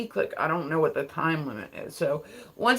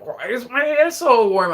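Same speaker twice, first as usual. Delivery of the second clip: louder, higher puzzled cry; baffled exclamation; 5 semitones higher, 6 dB louder than usual. Retold or imitated. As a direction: blurt it out in confused alarm. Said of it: "I was like".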